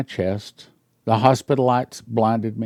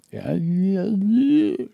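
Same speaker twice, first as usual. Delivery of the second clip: wife straining to speak; 9 semitones higher, much slower than usual. Retold or imitated. Imitating wife unable to speak.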